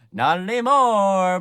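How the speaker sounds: very loud, high, stretched-out yell; mock menacing yell. Sweeney about to murder Joanna, hammed-up yell. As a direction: go over the top as the killer.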